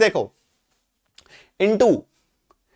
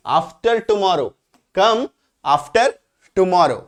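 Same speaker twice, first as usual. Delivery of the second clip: the English spelled out very slowly; slow teacher dictation; much slower than usual. Shown as a demonstration. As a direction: drag each word out for the students. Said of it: "उदाहरण देखो".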